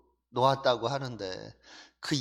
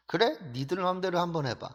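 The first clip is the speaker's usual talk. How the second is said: bold challenge. Retold or imitated. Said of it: "이런 담대함이 생기는 거죠".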